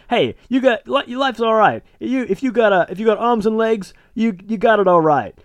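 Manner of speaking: high character monologue. Acted. Titus telling viewers their life's fine, monologue voice. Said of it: "the opening is the monologue".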